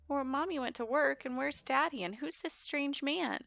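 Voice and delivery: put-on high-pitched small child voice; curious little girl. Liliana wonders about the strange man, childlike. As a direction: wonder aloud like a little kid.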